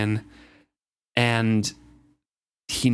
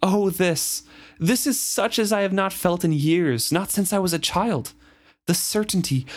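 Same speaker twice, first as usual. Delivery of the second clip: raised, elated prophetic voice; exultant; 6 semitones higher than usual. Acted. Reader voicing the fool, newly certain of his prophecy, exultant. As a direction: proclaim it with joy. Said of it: "Abruptly, he laughed".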